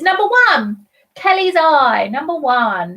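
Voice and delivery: lilting bingo call; bingo caller. Acted. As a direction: sing out the number like a bingo hall caller. Calling a bingo number.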